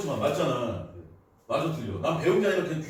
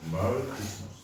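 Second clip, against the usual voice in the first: 메리 크리스마스 run together as "marl krismas"; English accent; 2 semitones lower than usual. Shown as a demonstration. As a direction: glide 메리 크리스마스 like an English speaker. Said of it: "외국인들 그렇게 발음하더라고".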